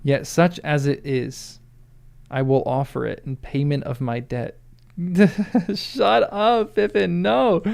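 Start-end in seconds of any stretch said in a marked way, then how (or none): 5.0-7.6 laughing, high-pitched protest; laughing disbelief. Real, not acted. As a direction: react with a laughing, incredulous plea. Laughing disbelief at Pippin's offer.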